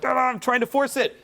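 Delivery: mock eager protest; mock striving. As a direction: mimic someone straining to force it. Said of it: "like you're in that hustle".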